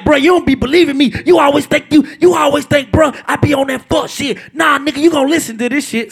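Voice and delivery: insistent friend. Retold or imitated. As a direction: imitate a friend pressing his point. Retells friend's insistent phone call.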